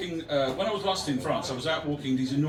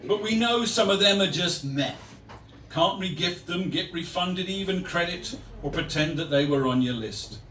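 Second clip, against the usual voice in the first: poem reading; 3 semitones higher, 3 dB louder than usual. Acted. Poet reading verse on disappointing days, declaimed then subsiding. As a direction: open big, then let it fall away.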